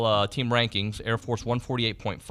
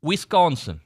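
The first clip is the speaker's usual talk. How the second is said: Wisconsin accent; 3 semitones higher, 4 dB louder, slower than usual. Real, not acted. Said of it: "I don't know why I get that accent".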